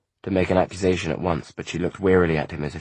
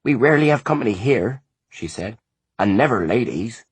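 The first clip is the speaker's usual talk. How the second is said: a lightly higher, earnest country mother; a mother pleading for her boy, a bit raised; anxious mother; 6 semitones higher, 5 dB louder than usual. A narrator's reading. Mother apologising to the visitors for her son, earnestly. Farm mother voiced in story.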